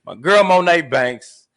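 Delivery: slow, punched host outro; show sign-off. Real, not acted. Host signing off with the show's tagline, drawn-out outro delivery. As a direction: stretch out the names and tagline.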